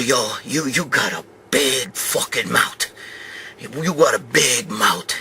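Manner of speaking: lightly voiced slow menacing telling-off aimed at the mother-in-law. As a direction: lean in and growl the warning slowly.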